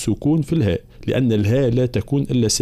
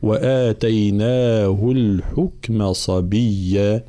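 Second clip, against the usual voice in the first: slow chanted tajweed recitation; slow Quran chant; Quranic recitation; much slower than usual. Shown as a demonstration. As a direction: recite it measured and melodic.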